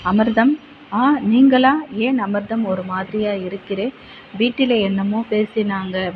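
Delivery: a worried young couple, voiced with feeling; young lovers trading anxious news; lovers' anxious talk. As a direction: play both lovers, tense and close. Lovers meet, anxious exchange.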